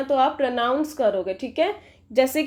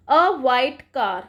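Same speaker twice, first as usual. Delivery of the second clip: very slow, deliberate; slow example; much slower than usual. Shown as a demonstration. Teacher reading out the example for the class, slow. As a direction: read the example out word by word. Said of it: "कैसे?".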